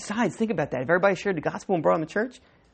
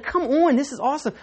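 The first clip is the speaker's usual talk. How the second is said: higher, delighted; mock excitement; 6 semitones higher than usual. Parent hearing about a new job, light excitement. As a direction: celebrate like the kid got the job. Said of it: "you're like".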